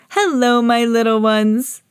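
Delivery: lightly put-on granny voice; Granny Pig. A narrator's reading. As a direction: welcome the grandchildren, lingering on the words. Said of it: "answered Granny Pig".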